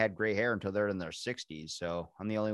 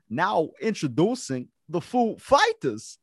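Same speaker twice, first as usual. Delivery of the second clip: loud, high, halting announcer with odd stresses; Christopher Walken; 9 semitones higher, 8 dB louder, slower than usual. Acted. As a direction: introduce the band slowly, punching the last word. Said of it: "And Christopher Walken goes".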